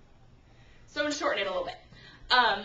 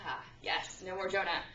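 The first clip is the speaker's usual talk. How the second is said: gloating whisper; 4 semitones lower, 4 dB quieter than usual. Retold or imitated. Brothers gloating after the deed.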